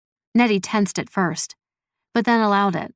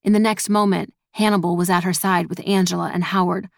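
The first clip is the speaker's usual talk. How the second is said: usual speaking voice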